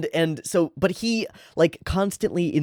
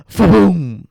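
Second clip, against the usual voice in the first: gasp, then a loud, high Fa-boom; excited burst; 6 semitones higher, 10 dB louder than usual. Acted. Poon Poon hitting on the apple plan, excited. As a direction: explode with the idea. Big idea moment.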